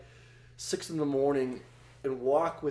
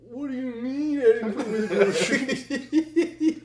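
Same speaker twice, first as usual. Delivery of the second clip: high-pitched incredulous protest; mock-bewildered teen, voice pitched way up; imitating baffled son; 10 semitones higher, 3 dB louder than usual. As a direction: squeak it out in disbelief.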